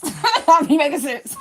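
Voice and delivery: laughing through the words, slow and high. Real, not acted. A woman laughs at herself in her live, pleased she makes sense. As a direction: crack up while saying it.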